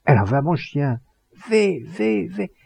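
high, urgent cries after the dog; yelling in alarm. A narrator's reading. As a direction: cry out, voice leaping up. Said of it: "hurla ce gourgeon". (cris aigus d'alarme)

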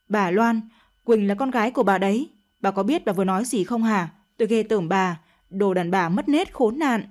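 young lover scolding Loan in a mild mock yell; lightly voiced shouting. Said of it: "Thuận hét lên". (hét nhẹ, giận dữ mắng Loan)

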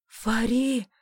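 loud startled cry of her name; anguished call. Acted. Husband crying out to his fainting wife, loud alarm.

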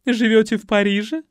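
high, loud eager question; fishing for gossip; curious society lady. A narrator's reading.

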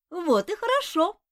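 put-on high, eager little boy's cry; the little one yelling happily at the monk; shouted out. A narrator's reading. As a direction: call it out gleefully. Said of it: "выкрикнул малыш".

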